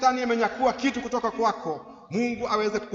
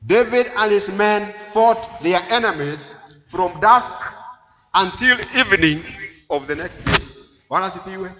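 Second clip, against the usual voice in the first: emphatic preaching; 8 dB louder than usual. Real, not acted. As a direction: proclaim it phrase by phrase, with pauses. Preacher proclaims the battle account.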